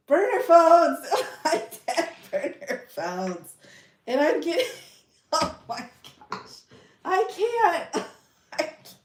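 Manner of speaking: words squeezed out high between laughs; real giggling fit, voice giving out; uncontrollable laughter. Real, not acted. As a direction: lose it completely while trying to talk. Cracking up over own slip.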